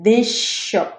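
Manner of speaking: this said "dish", running into shop; one long sh joining this and shop; assimilated S. Shown as a demonstration. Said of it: "দুইটা স উচ্চারণ হচ্ছে এখানে".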